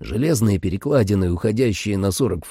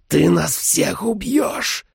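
vampire voice; 9 semitones higher, much slower than usual. A narrator's reading. Vampire voice in the story.

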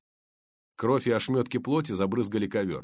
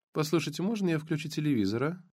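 lightly voiced blonde; 5 semitones higher than usual. Blonde neighbour voiced by reader.

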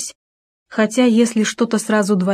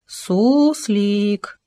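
menacing call. A narrator's reading. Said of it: "угрожающе позвал он".

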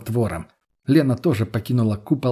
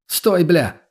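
loud, higher shout to stop someone; urgent yell; 5 semitones higher, 4 dB louder than usual. A narrator's reading. Narrator yelling to stop the execution shot.

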